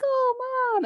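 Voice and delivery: high, drawn-out imitation of a doting daughter; cooing daughter. Daughter snuggling up to Mom, mock-cooing high. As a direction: coo it up high, stretching the words. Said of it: "snuggling up to Mom and being like".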